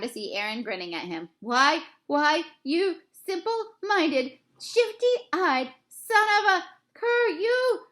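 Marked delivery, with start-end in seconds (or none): 1.4-7.9 loud, high and slow, spluttering with rage; sputtering insults. A narrator's reading. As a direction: spit each insult out, furious. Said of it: "Henry stammered out his insults".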